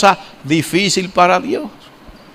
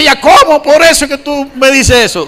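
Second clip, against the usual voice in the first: wife's disbelief; 7 semitones higher than usual. Retold or imitated. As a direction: voice the wife in disbelief. Wife's astonished reply voiced.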